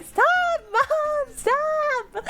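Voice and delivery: put-on high, pleading embarrassed kid voice; squeaky mock protest from the daughter; mock whiny teen plea. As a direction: beg your mom to stop, whining.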